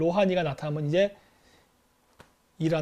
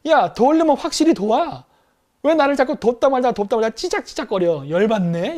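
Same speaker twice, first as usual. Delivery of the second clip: higher and louder, an exasperated ally venting; fed-up angry rant; 4 semitones higher, 5 dB louder than usual. Retold or imitated. Turkey scolding America for half-hearted help, angry and loud. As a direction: let the frustration spill out, raised and loud. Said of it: "열받아서 그런 거야".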